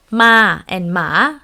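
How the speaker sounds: "ma and ma", slowly, each "ma" on its own tone; contrasting tones. Shown as a demonstration. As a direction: contrast the pitch tune of the two "ma"s. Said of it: "different tone, different meaning".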